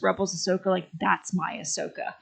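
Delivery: holding back tears; choking up. Real, not acted. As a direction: voice choked with tears. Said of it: "I'm choking up as I'm saying this".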